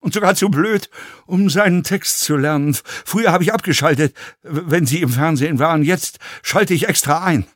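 high, excited mockery building to a shrieked peak; derisive fellow passenger. A narrator's reading. Passenger jeers at actor on screen, derisive rant. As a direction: jeer with mounting, almost hysterical glee.

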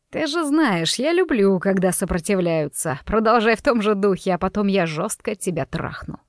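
a touch of cruel relish, pitch dropping; taunting villain. Acted. Dante taunts Rosa as she fights back, lightly menacing villain.

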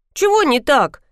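выше, с притворным удивлением; сыграй невинное удивление; наигранное удивление. A narrator's reading. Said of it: "изобразила удивление девочка". (девочка притворно удивляется замечанию дяди, наигранно)

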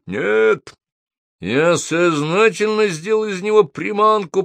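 high-pitched roar of a retort. A narrator's reading. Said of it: "проревел Холл". (реветь в ответ)

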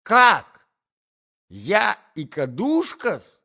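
very high, loud squeal; piercing high indignation; outraged shriek. A narrator's reading. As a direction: shriek in offended disbelief. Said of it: "взвизгнула Наталья Дмитриевна".

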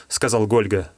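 ordinary delivery

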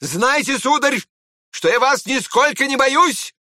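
defiant shout from the doorway; proud, defiant shout at the door; shouted after him. Acted. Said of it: "Князь прокричал ему вслед".

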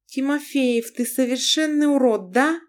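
taken aback, she scolds him; wife Lana. Acted. Narrator voices the wife Lana.

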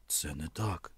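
low, half-hearted denial; unconvincing. A narrator's reading. Man denies indifference to her, unconvincingly. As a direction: deny it without conviction. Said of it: "непереконливо відповів Кольський".

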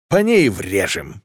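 merry, drawn-out cry at no great volume; a touch of gleeful battle cry; cheerful shout. A narrator's reading. Captain merrily ordering an attack on the ship, cheerful shout. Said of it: "весело выкрикнул Луиджи".

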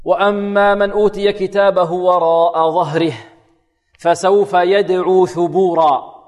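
slow, measured tajweed chant; Quran recitation. Shown as a demonstration. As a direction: recite with long drawn vowels, pausing at verse end. Recites the whole verse. (تلاوة مرتلة)

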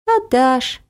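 put-on a calm, high little girl's reply; calm, certain child's voice. A narrator's reading. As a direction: answer coolly, sure she'll win. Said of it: "спокойно ответила Ася".

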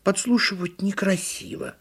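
high, mildly huffy turtle voice; high-pitched hurt reproof; offended turtle. A narrator's reading. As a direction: reproach primly as a little turtle. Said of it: "обиделась «Именно я»".

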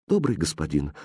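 soft, low, hesitant interruption; timid. A narrator's reading. Aladdin shyly interrupting the kind stranger, timid. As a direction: cut in meekly, in a small soft voice. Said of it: "робко перебил его Аладдин".

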